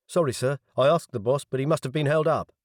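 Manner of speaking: a hint of a nervous young officer apologising; apologetic young officer.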